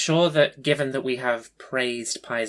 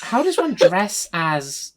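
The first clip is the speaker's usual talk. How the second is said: laughing disbelief; 5 semitones higher, 4 dB louder, slower than usual. Real, not acted.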